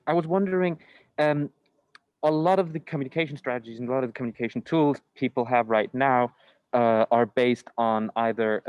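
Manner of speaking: muffled by a face mask; through a face mask. Real, not acted. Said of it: "is the mask muffling too much?".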